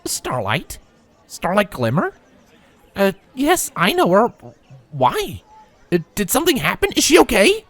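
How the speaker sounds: rising worried colt voice; anxious questions building in pitch; concerned. A narrator's reading. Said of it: "he asked in concern".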